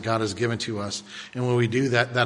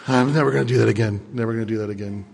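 shaken rider vow; 4 semitones lower, much faster than usual. Acted. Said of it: "That's the second person".

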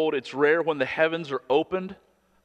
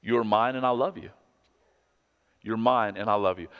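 tender. Shown as a demonstration. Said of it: "He says".

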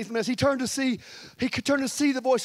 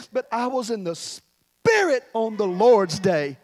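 drawn-out quote; slower than usual. Acted. Acts John's awed testimony.

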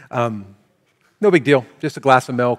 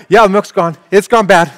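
family agreeing; 8 semitones higher, 11 dB louder than usual. Retold or imitated. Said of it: "the whole family figures out".

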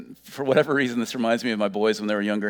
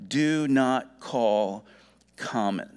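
slow, weighty pronouncement with pauses; voice of God correcting; much slower than usual. Acted. The voice answering Peter a second time, slow and solemn. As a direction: deliver the ruling slowly, dropping at the end. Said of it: "and the voice said this".

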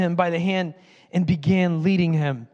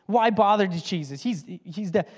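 mocking voice. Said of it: "I'm doing that voice".

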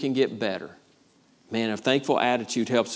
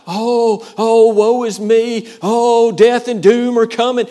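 loud high mock lament of doom; high, loud hammed-up woe-is-me moan; mock wailing complainer; 10 semitones higher, 12 dB louder, slower than usual. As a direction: wail it like a melodramatic doomsayer.

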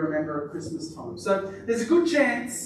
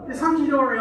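higher, louder Aussie twang; Aussie accent; 6 semitones higher, 5 dB louder, faster than usual. Shown as a demonstration. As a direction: put on an Aussie accent for "hunky-dory". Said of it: "I think it's Aussie thing".

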